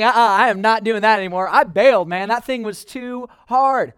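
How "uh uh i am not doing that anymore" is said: emphatic refusal. Retold or imitated. Exhausted runner quits for good, loud refusal. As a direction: slam the door on running. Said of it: "I was like".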